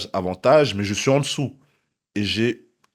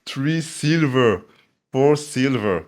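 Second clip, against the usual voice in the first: retold crowd shout; 6 semitones higher, 6 dB louder, much slower than usual. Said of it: "j'entends les gars recrier".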